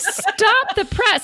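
slow mock announcement; drawn out stop the press; mock dramatic.

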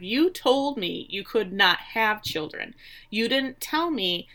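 slow, emphatic mock reproach; retold indignation. Wife confronting husband over his lie, retold indignation.

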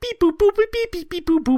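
high chirpy computer beeps; robot beeping. Pretend. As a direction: beep like a calculating machine. Calculating results, robot noises.

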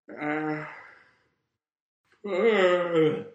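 loud groan. Real, not acted. Loud wordless outburst, then apologises.

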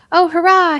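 high, loud burst of triumph; joyful cry. Acted. Lionel cries out to the hippogriff in loud triumph. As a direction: shout it out as the dragon is trapped. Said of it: "he cried".

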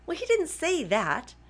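high-pitched, drawn-out "oh" of realisation; retold surprise. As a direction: act out being taken aback, pitched well up. Acts out surprised reply to GP.

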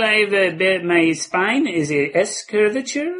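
high, halting stammering panhandler; hesitant beggar voice. Acted. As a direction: stammer out a shy plea for bus fare. Same beggar character.

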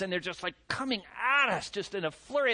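ordinary talk

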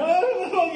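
high-pitched imitation of wordless blubbering; mock crying. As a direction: wail a put-on sob, high, unable to get words out. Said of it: "all she does is cry".

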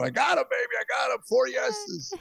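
re-enacted elated phone call; excited good news. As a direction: break the big news in a high, giddy voice. Acting triumphant phone call home.

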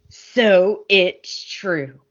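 drawn out very slowly, a hammed-up soap reveal. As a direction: stretch every word for melodrama. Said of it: "They walk in all dramatic and they go".

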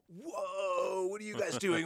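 startled bystander shout; startled tourists. Retold or imitated. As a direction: call out in alarm at the runners. Tourists see them fleeing.

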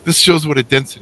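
high, heated retold telling-off; indignant scolding. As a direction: lecture him high and indignant. CEO scolds the stealing employee.

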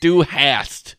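"Du hast" with the English flat a of has; "Du hast" anglicised, no German vowel; English-word pronunciation. Shown as a demonstration. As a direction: read "Du hast" as if it were English. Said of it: "say it with, like, its English words".

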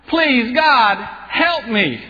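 desperate cry for help. Acted. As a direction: call out to God in panic. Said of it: "he cried out".

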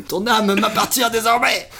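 slow booming demonic voice; devil voice. Acted. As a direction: boom it out like the devil himself. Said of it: "Le diable".

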